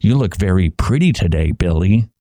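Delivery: lightly voiced teacher. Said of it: "three-year-olds being told".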